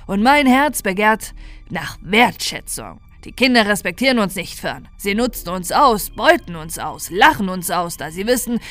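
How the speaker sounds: a corrupted Santa revelling in new freedom; lightly voiced triumphant villain; menacing Santa. Santa continues his monologue.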